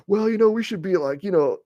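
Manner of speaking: high, mocking voice of a whiny red pill guy. Mocking red pill guys to his audience in a high whiny voice. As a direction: sneer it up high like a complaining dude. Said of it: "They're like".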